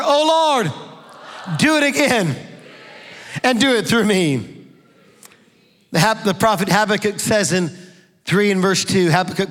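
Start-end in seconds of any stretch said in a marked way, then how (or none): 0.0-4.7 high, loud "Oh Lord, do it again"; louder congregational call. Shown as a demonstration. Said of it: "Come on, louder".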